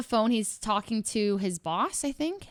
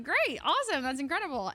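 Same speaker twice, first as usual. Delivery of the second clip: higher-pitched, mildly gushing reply; retold delight; 4 semitones higher than usual. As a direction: react with polite, upbeat delight.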